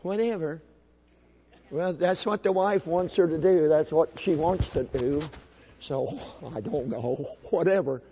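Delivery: lightly drawled indifference; mocking passive dads. Passive dad deferring to his wife, lightly mocked indifference. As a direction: shrug it off, dragging some words. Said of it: "too many dads are sitting by".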